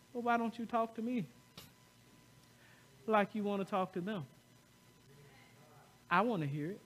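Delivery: soft, unhurried voice of God; gentle divine voice. Retold or imitated. God inviting a troubled man to talk, softly. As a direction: speak it quietly, as an inner voice inviting. God's voice answering him, retold.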